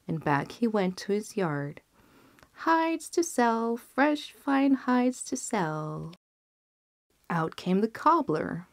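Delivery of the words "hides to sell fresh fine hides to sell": high, slow street-hawker cry; bawling. A narrator's reading. Brothers hawking hides through the fair, calling out. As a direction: sing it out like a market crier. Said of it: "bawling out at the top of their voices".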